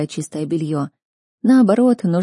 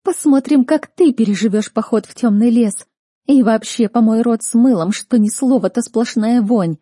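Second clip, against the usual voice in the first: higher, louder furious scolding; furious threatening tirade; angry rebuke; 4 semitones higher, 5 dB louder than usual. Acted. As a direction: put her in her place. Sister angrily rebukes Chloe.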